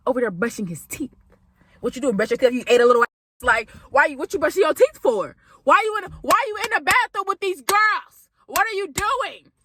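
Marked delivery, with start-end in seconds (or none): 1.8-9.5 rising, disbelieving what are you doing; incredulous questions. Retold or imitated. Friend confronting frat in girls' bathroom, incredulous. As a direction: demand answers from him in shock.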